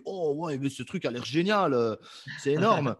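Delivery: gushing over a magazine ad; excited reader. Retold or imitated. Imitating a reader excited by ads. (lecteur emballé)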